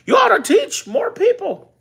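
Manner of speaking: high, lightly voiced mentor quote; a hint of the wise mentor; quoting Bob Proctor. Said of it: "He said".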